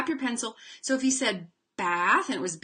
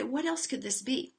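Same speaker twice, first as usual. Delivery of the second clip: teacher prompt; 3 semitones higher, 5 dB quieter than usual. Shown as a demonstration. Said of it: "and then say".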